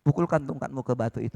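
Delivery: low commanding voice of God; a hint of a solemn God. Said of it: "Tuhan bilang".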